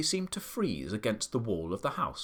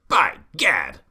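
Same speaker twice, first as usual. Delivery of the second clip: louder, startled exclamation; loud cry; 10 dB louder than usual. A narrator's reading. The Duke realising it is the Duchess's bedroom, crying out loudly. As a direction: blurt it out in shock. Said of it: "cried the Duke".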